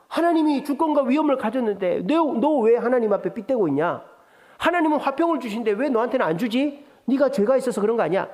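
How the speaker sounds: preacher voicing Bildad taunting Job, sarcastic; sarcastic mockery. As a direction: taunt him as a smug friend. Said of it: "비꼬는 사람이 빌닷이에요".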